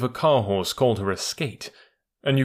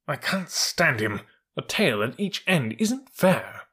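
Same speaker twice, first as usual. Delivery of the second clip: slow, higher-pitched grumbling; peevish complaint; 5 semitones higher, slower than usual. Acted. Troop horse complaining about the elephant, peevish. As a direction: air a pet dislike.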